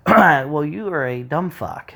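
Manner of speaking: mock-confrontational insult, starting loud. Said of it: "we don't get confrontational".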